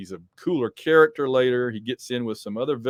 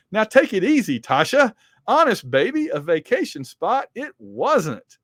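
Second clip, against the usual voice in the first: high, loud play-acted protest; mock protesting; 8 semitones higher, 5 dB louder than usual. Hawkeye tells an angry Tasha to calm down, mock protesting. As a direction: placate her in a raised, hammed-up voice. Acting Hawkeye's reply to Black Widow.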